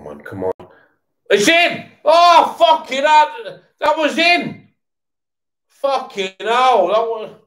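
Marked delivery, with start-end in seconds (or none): 1.3-7.4 very high, loud elated yelling; screaming with joy at a goal; goal celebration. Real, not acted. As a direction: erupt as the ball goes in.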